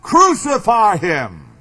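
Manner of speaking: mock crowd cry, drawn out slowly; restrained imitation of a shouting mob; imitated mob shout. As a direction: call it out like the mob, only half-shouted. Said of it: "the mob that shouted".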